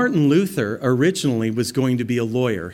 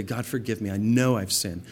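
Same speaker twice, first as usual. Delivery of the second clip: quiet prayer; 2 semitones lower than usual. Pretend.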